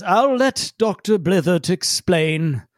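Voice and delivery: slow grave handing over; formal Feledrin. Acted. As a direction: pass the floor slowly and formally. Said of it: "Feledrin says".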